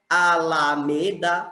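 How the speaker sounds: "Alameda" slowly as a, la, me, da; syllable by syllable. Shown as a demonstration. Teacher counting four syllables, "Alameda" slow and syllabic. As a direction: stretch "Alameda" over four even beats. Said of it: "quatro sílabas".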